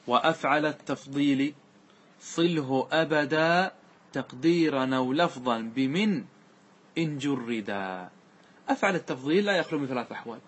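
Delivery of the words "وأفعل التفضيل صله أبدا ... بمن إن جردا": slow chanted reading of the verse; teacher recites the grammar poem to class, slow and measured; verse recitation. Acted. Chant the line of verse slowly.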